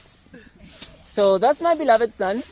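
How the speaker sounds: very slow, grand proclamation of the words; mock heavenly announcement. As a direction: announce it like a herald from the sky. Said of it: "uh, announcement".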